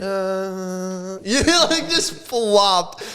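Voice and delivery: high, laughing through the words. Real, not acted. Telling the host about the flop, laughing. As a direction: laugh at how badly it went. Laughing at his own failure.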